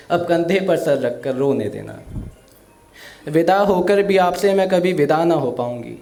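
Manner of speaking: emotional recital of a daughter's farewell poem. Acted. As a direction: recite it with feeling, like a stage poet. (भावुक कविता पाठ)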